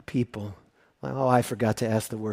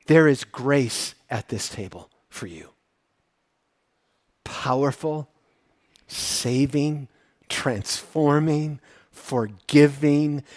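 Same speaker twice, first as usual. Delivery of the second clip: tender preaching; much slower than usual. Acted. Slow soft offer of grace.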